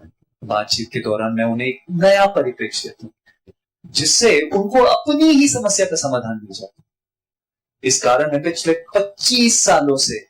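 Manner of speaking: mostly low speech with chosen words like नया and अपनी stretched; underlining key words. Shown as a demonstration. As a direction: lift and stretch words like पच्चीस to hold attention. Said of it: "मैंने कहां-कहां stress दिया". (चुने हुए शब्दों पर ज़ोर)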